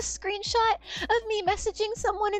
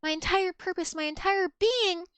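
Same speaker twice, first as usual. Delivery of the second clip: mock-romantic declaration; 2 semitones lower than usual. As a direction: read it like an overblown love letter. Reads out mock love declaration.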